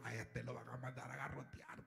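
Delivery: unvoiced, secretive whisper; whispered thought. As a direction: say it under your breath. His inner thought whispered.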